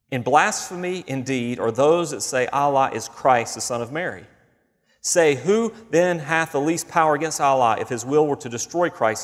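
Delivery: reading scripture in a measured, formal cadence. Acted. Preacher reading the Quran aloud to the congregation, formal reading.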